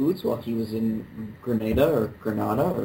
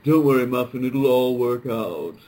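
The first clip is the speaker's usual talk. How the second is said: mock careless husband; 4 dB louder, slower than usual. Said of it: "They're just like".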